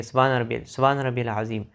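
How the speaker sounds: سبحان ربی العظیم gabbled, the endings dropped; rushed recitation. Shown as a demonstration. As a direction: hurry through سبحان ربی العظیم, the wrong way. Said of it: "جلدی جلدی پڑھتے ہیں". (سبحان ربی العظیم جلدی میں غلط)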